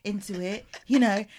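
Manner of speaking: soft, half-whispered peacemaker. Retold or imitated. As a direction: hush it, like a calming uncle. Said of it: "softer voice, softer voice".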